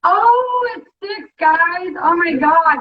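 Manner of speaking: bright excited cry of joy; excited shout. Real, not acted. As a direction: cheer it out to viewers. Excited at egg count.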